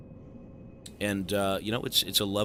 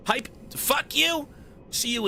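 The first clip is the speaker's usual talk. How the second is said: mock yell at troll; 13 semitones higher than usual. Banning a trolling donor.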